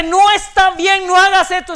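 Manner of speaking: a hint of the Spirit warning you. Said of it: "no es tu conciencia que te dice". (un leve tono de advertencia interior)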